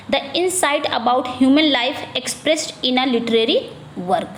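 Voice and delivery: slow, careful reading of an exam question; slow dictation read. Acted. Teacher reading a quiz question slowly to the class. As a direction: read each word out slowly for students.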